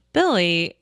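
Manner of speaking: gently drawn-out name, lightly acted; very nicely. Friend gently addressing the annoyed player, very nicely. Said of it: "like, very nicely".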